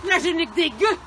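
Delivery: booming royal voice; hammy stage actor. Acted. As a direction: declaim like a pompous king. Plays Henri IV as king.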